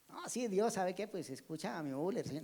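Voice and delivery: softly murmured, half-hearted imitation of praying; captain's mock prayer. Captain praying after Müller, soft half-hearted mock prayer. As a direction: mumble a token prayer, lightly acted. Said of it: "el capitán empezó a orar".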